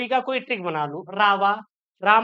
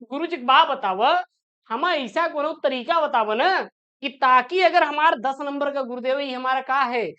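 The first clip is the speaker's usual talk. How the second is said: lightly voiced eager student, a bit higher, begging; pleading student voice; 3 semitones higher than usual. Student pleading with guruji for eight marks, mildly higher and eager. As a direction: play a cheeky student wheedling the teacher for easy marks.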